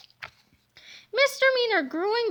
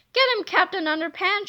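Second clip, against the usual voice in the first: mild cheer; 3 semitones higher than usual. Acted. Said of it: "shouted Old George".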